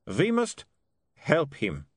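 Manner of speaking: put-on earnest, measured foreign-accented voice; Otto's foreign accent. A narrator's reading. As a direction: plead for a friend in a foreign accent.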